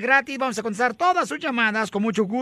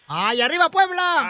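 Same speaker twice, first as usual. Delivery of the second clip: pitched-up rallying cheer; porra festiva; 4 semitones higher than usual. Pretend. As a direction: cheer for the hometown, stretching the end. Cheering guest's home state. (porra alegre, aguda y alargada)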